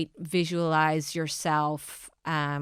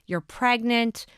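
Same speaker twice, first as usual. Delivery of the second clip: happy news; 6 semitones higher, much slower than usual. Retold or imitated. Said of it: "hear them saying".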